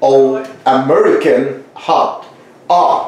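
American "hot" with an open ah; American pronunciation. Shown as a demonstration. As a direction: spell out the "Ah" vowel, word by word. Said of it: "it's important for them to know".

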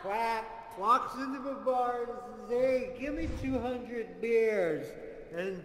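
Mister Beer voice. Acted. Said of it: "throw my voice into Mister Beer".

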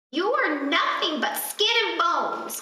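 a touch of a wicked crone; witch crying out. Acted. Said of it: "cried the witch".

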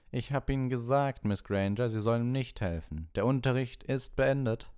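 high, loud, cutting teacher's command; cold Snape. Acted. Snape ordering the class to clean up, cutting. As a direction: bark orders across the dungeon.

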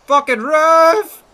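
stretched, high yell at the miss; furious shout. Real, not acted. Gamer yelling at his striker for missing, loud. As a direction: roar it out slowly in outrage. Striker misses a chance in FIFA.

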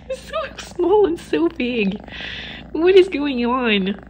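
amused, slow, marvelling; slow laughing disbelief. Real, not acted.

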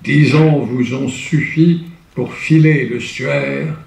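grave theatrical verse, fading to a hush; declaimed Hugo verse. Shown as a demonstration. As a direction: intone the elegy like a lament. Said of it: "Là, c'est du Victor Hugo".

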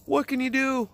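squeaky high-pitched laugh. Real, not acted. Self-deprecating laugh.

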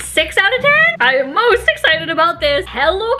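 eating while speaking; talking while chewing. Real, not acted. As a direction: mouth partly full of popcorn. Seen 1: Popcorn put in mouth at -2.0s; jaw and lips keep chewing while talking.

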